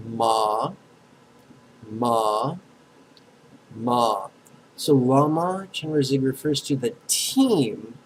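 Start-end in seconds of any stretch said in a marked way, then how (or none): 0.1-4.3 "ma" long and isolated, lifting at the end; syllable demo. Shown as a demonstration. Teacher has students echo second syllable, pronunciation demo. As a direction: repeat "ma" evenly, pausing for an echo. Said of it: "Second syllable".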